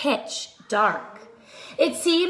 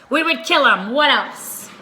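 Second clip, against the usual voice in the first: menacing thief; 6 dB louder than usual. Acted. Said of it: "his friend replied".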